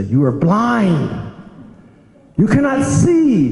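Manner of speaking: scolding disciples with rising fury; angry rebuke. Retold or imitated. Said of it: "Prabhupada would be very angry".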